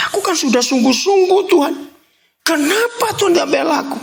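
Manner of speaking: complaining believer. Acted. Preacher voices complaining believer.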